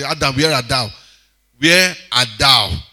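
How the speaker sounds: slow, booming where art thou; voice of God. Retold or imitated. Preacher voices God calling Adam, slow and grave. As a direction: call out slowly like God seeking Adam. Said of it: "Like God when he asked Adam".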